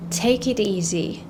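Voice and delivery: "Take it easy" said very slowly, word by word; slow careful take. Shown as a demonstration. Teacher giving the slow form first.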